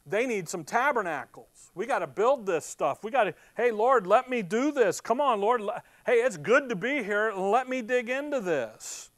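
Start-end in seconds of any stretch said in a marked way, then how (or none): 3.5-9.1 Peter's eager begging, hammed up.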